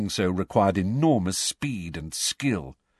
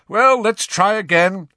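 raised call; 10 semitones higher, 9 dB louder than usual. Acted. Captain restarting drill.

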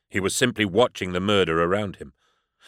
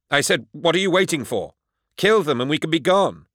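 impatient shout; 8 semitones higher than usual. A narrator's reading. Lyco repeating his order to the demon, high impatient shout. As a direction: bark the order again.

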